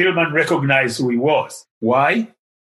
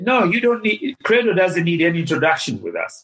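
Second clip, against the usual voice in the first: imitating Mrs. Haas; 4 semitones higher than usual. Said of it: "Missus Haas said".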